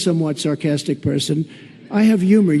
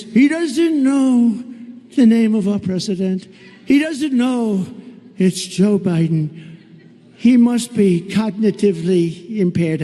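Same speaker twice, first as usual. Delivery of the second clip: mocking the press; 2 semitones higher, slower than usual. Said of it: "the fake news says".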